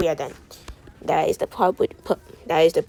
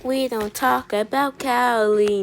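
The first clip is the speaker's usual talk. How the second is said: mock solemn; 5 semitones higher, slower than usual. Blague solennelle sur Callie.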